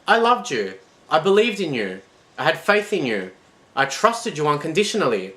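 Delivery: high, loud grieving reproach; anguished lament. Acted. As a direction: pour out the hurt. Betrayed god laments.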